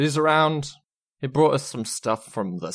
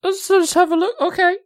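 put-on high, pleading drunk woman; high tipsy whine; 5 dB louder than usual.

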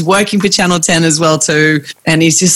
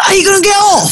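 high, laughing English accent imitation; mock English accent, pitched up through laughter; Pommy accent; 14 semitones higher than usual. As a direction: mimic a cheeky English voice, much higher. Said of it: "this Pommy accent".

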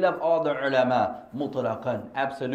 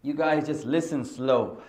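amused, slower delivery with a laugh; Shaykh's joke, laughing; 5 dB louder, slower than usual. Retold or imitated. Shaykh answering students' complaint, amused and laughing. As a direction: let the punchline roll out with a laugh. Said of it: "He said".

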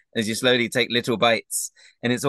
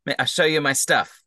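higher-pitched, halting invitation in character; friendly game character; 4 semitones higher than usual. Acted. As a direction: coax a new friend to come round. Game master voices Agden.

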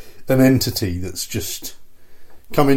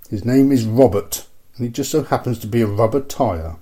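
horror trailer voice. Acted. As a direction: read it like a creepy movie trailer. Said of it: "So the back says".

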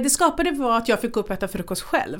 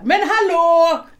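slow, higher, louder mock call with a laugh; 7 semitones higher, 6 dB louder, much slower than usual. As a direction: call out hallå, drawn out, laughing. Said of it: "ropade så här". (ett utdraget, skrattande rop)

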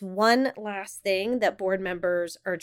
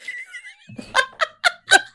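high helpless giggling; burst of laughter; 5 dB louder than usual. Real, not acted. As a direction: lose it laughing again. Breaks up again.

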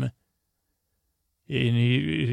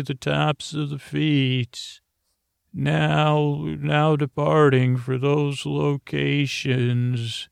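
train conductor announcement; 3 semitones higher, slower than usual. Acted. Uncle calling kids aboard his pretend sunscreen train, mock conductor announcement.

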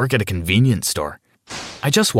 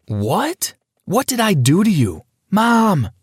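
put-on scared child calling mom; 10 semitones higher, slower than usual. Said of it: "I screamed for my mom".

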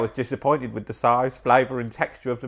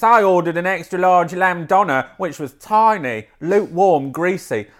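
slightly raised, mildly indignant reading; indignant reviewer; 3 semitones higher than usual. Acted. Voicing reviewer Craig to her co-host, mildly indignant. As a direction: read the complaint a touch higher, with mild outrage.

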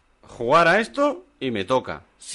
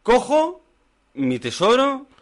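Gollum voice; 11 semitones higher, 3 dB louder, slower than usual. Pretend. Host grabs his winnings as Gollum, high and loud. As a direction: jump far up in pitch and louder, a greedy creature clutching treasure. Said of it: "Si tengo que explicarte la referencia".

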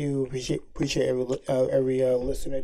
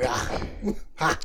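fake surprise; 3 semitones higher than usual. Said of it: "you scream".

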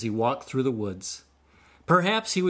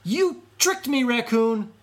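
higher, louder furious threat; enraged shout; 12 semitones higher, 4 dB louder than usual. A narrator's reading. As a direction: scream your rage up at him. Enraged fox below the tree.

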